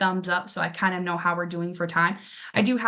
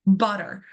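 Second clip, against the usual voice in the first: butter with BU a touch louder; stress on BU; 3 dB louder than usual. Shown as a demonstration. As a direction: lean on BU in butter. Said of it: "our stress syllable right away".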